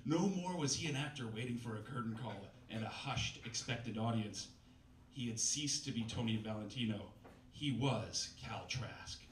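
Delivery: lightly overwrought novel narration, slowing on big lines; dramatic story reading. Acted. Comedian reads a bad novel to the crowd, mock-dramatic narration. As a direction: read the purple prose with mock gravity.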